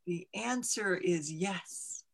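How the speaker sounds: a recarved mountain giving its first yes; slow mountain voice. Acted. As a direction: let the mountain pronounce yes, slowly and softly.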